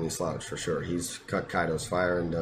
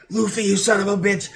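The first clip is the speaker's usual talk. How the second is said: high, loud joyful cry; excited yell; 6 dB louder than usual. Retold or imitated. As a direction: shout it, overjoyed to see him.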